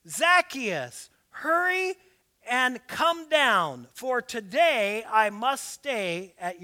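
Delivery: measured scripture reading. Acted. Reads scripture aloud.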